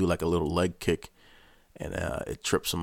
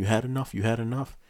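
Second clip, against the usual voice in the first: high, pressing taunt; taunting insistence; 5 semitones higher, faster than usual. Retold or imitated. Guard mid-fight, high taunting insistence. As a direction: push it at him, pitched up. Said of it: "I'm telling him".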